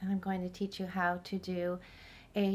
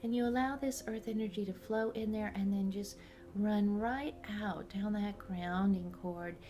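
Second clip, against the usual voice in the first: calm guided meditation voice. Real, not acted. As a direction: guide the listener inward, unhurried.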